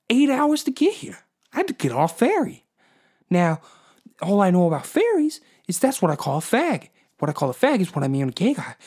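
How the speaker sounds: high, loud Boston bro rant; Mark Wahlberg bro. Acted. Comic playing Mark Wahlberg, ranting loud and high about Newfoundland fish. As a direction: yell it like a cocky Boston tough guy. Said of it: "Fucking Mark Wahlberg".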